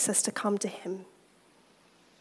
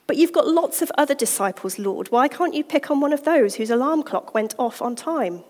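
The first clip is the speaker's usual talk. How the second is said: a bit higher, louder complaining; whining excuse; 3 semitones higher, 4 dB louder than usual. Acted. Busy believer protesting to the Lord, whiny.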